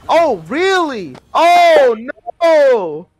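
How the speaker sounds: slow, then a loud mock gasp; fake surprise. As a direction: play dumb and act shocked. Mock shock at Stefan news.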